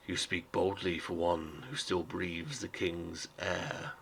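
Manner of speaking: slow, measured and lightly cool authority; smooth but firm. Acted. Robed councillor warning the crate speaker, smooth and firm. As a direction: let the threat sit under calm words. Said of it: "his voice is smooth but firm".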